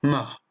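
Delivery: ma short and falling sharply; fourth tone ma. Shown as a demonstration. Teacher demonstrating Chinese falling fourth tone. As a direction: snap ma down fast, like an annoyed no. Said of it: "je répète".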